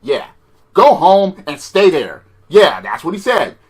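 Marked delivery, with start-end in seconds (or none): 0.7-2.2 stern order. Retold or imitated. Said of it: "Told him to go home".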